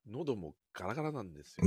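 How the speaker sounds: hoarse, rough throat; gravelly voice. Real, not acted. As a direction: rasp from partying last night.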